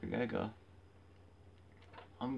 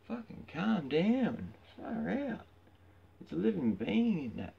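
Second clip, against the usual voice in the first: much higher and louder, slow outburst; exasperated rant; 11 semitones higher, 7 dB louder than usual. Real, not acted. Scolding UFC crowd for cheering blood, loud exasperation. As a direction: blow up at them to calm down.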